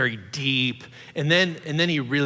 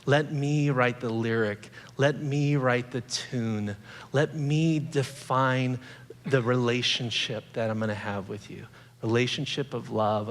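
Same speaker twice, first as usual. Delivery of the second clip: slow, softer voice of the good shepherd; gentle Jesus; 3 dB quieter than usual. Retold or imitated. Jesus speaking to the listener, softly and slowly inviting. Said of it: "And Jesus is saying".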